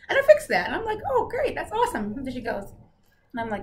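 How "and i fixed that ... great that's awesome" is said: dramatic retelling. Retold or imitated. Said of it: "I'm gonna be dramatic".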